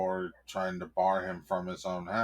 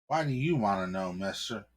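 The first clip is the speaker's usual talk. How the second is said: fast, raised cop voice; snippy cop; faster than usual. Acted. Cop questioning the husband, fast and suspicious. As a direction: rattle it off, suspicious.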